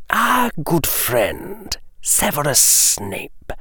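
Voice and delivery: drawn-out silky aristocrat; a languid lord dropping a name; Lucius's voice. Acted. Lucius names a suspect.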